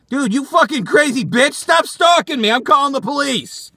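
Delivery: high-pitched angry outburst; alarmed outrage. Acted. Man to his stalker fan, alarmed and angry. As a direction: tell off a stalker, high and heated.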